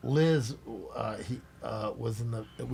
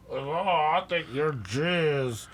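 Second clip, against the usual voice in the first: imitating a singer; 2 semitones higher, much slower than usual.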